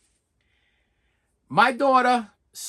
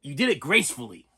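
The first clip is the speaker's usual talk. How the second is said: put-on deadpan boyfriend; 5 semitones lower than usual. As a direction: say it dry and low, a hint of a teasing boyfriend. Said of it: "his comment was".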